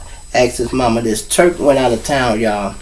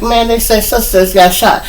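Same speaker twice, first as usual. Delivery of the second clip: high-pitched urgent news; retold alarm; 10 semitones higher than usual. Telling the hill about a shooting, high retold alarm. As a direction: pitch it up like breaking bad news.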